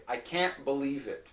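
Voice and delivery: "can't" with no T, only a glottal stop; nasal vowel then stop the air in "can't". Shown as a demonstration. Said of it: "so we say".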